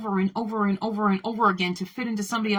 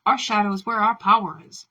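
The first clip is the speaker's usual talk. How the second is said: bold declaration; 5 dB louder than usual. Shown as a demonstration. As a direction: proclaim it loudly, like a manifesto. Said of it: "and saying".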